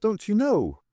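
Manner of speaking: high, smooth Scots question; smooth Scottish voice. A narrator's reading. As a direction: ask it smoothly in a Scottish accent. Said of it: "The Scottish voice continued smoothly".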